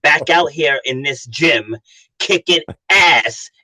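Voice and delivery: rousing coach call, slowing down; rallying push. Retold or imitated. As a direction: fire him up to get back in the gym. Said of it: "I go".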